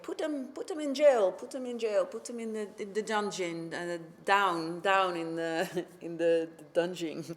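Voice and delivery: king ordering guards, anger fading; angry order. Acted. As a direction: bark it at the guards at first, then run out of steam.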